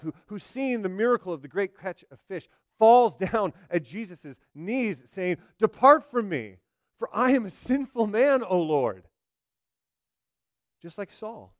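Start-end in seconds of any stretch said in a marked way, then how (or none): 5.6-9.1 raised, pleading cry of a sinner; anguished cry. Retold or imitated. Peter begs the Lord to leave, crying out. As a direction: cry out your unworthiness, high and strong. Peter cries out at Jesus' knees.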